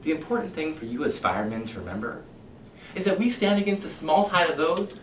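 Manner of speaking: a smooth, menacing captain talking his men round; silky, sinister fire captain addressing his firemen; Captain Beatty lecturing. Acted.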